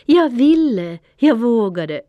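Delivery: high, loud triumphant call upward; loud shout. A narrator's reading. Dylan calls after Panter flying to the moon, loud triumphant shout. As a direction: shout it to the sky. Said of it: "högt ropade jag".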